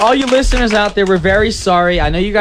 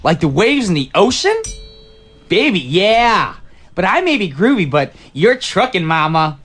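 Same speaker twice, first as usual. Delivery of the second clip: smooth seventies guy; 3 semitones lower than usual. Acted. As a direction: croon it like a disco lounge lizard. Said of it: "that was the character I was going for".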